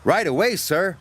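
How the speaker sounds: high, eager reply. A narrator's reading. Thomas answering the manager, eager. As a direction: snap to it willingly. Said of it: "whistled Thomas".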